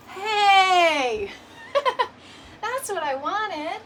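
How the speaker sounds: high, laughing hey; laughing delight. Real, not acted. Showing viewers the fixed camera view, laughing. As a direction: laugh through the words happily.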